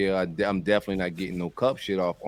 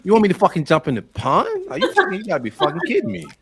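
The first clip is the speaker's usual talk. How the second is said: angry redneck; 11 semitones higher, 6 dB louder than usual. Acted. Acted fishing argument.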